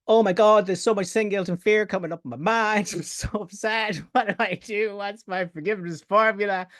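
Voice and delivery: high, hammed-up panicked seeker, laughing through it; mock panic. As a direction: overplay the frantic worrier for laughs. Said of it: "here's what everyone does".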